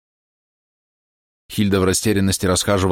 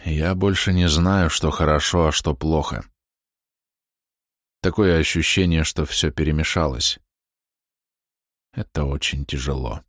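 despairing; 3 semitones lower than usual. A narrator's reading. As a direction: let the words sink in despair. Basil despairing. (подавленно, тише и ниже)

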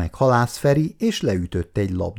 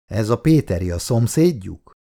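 matter-of-fact, uninvolved question; indifferent questioning. Acted. Lieutenant carrying on questioning the woman, indifferent. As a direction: ask it without any interest. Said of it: "közömbös hangon kérdezett tovább".

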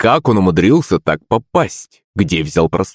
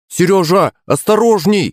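high, urgent call to Seryozha; shouted warning; 11 semitones higher than usual. A narrator's reading. Sonya calls after Seryozha, high warning shout. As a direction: cry out a warning to him. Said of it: "крикнула Соня".

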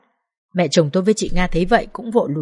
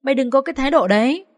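harsh scolding, raised pitch; furious mother-in-law; 5 semitones higher than usual. Acted. Mother-in-law abusing her son's wife, harsh angry scolding. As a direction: berate her with contempt.

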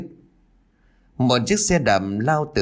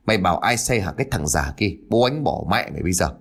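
put-on drunken slur; 3 semitones lower, faster than usual. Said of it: "rồi lề nhè".

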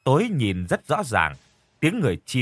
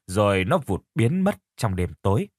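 plain reading voice

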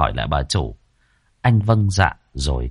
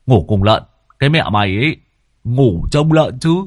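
retort; 3 semitones higher, 4 dB louder than usual. Acted. Toàn cãi lại.

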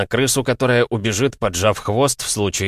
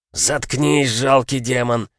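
growled; 3 semitones higher, slower than usual. Acted. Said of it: "прорычал оборотень".

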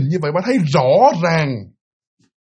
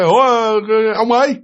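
higher, puzzled call to him; 5 semitones higher, slower than usual. Acted. Wife hailing her husband in the distance, calling out. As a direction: call out to someone approaching.

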